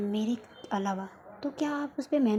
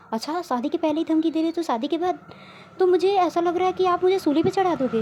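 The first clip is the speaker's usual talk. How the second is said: mock-alarmed teasing; 4 semitones higher than usual. Naina teasing Sakshi with mock alarm about threats. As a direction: tease her with mock horror.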